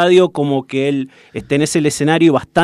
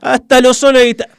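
excited; 9 semitones higher, 4 dB louder, faster than usual. Real, not acted. Repeating the fans' absurd singing.

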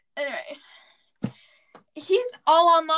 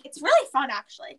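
joking sarcasm. Real, not acted. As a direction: feign enthusiasm, then let it sag. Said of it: "Just kidding".

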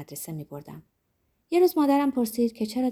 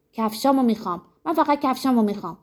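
shouting with all her strength; 5 semitones higher, 4 dB louder than usual. Acted.

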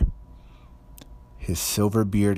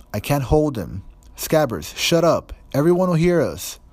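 much higher and louder, speeding up; desperate to silence the rat; panicked Ron; 8 semitones higher, 5 dB louder than usual. A narrator's reading. Ron can't hold the squealing rat, panicked and loud.

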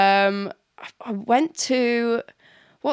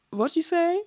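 laughing; 8 semitones higher than usual. Real, not acted. Laughing, searching for word.

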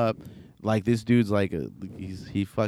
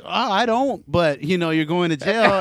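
starts much higher, then a lightly voiced cop; mock a smug undercover cop; imitated undercover cop; 5 semitones higher than usual. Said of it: "the dude is like".

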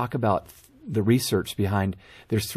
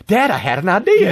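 high, loud imitation of a kid; mock childlike excitement; excited child; 7 semitones higher, 7 dB louder than usual. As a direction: pipe up like an eager son. Father voices excited dreamer son.

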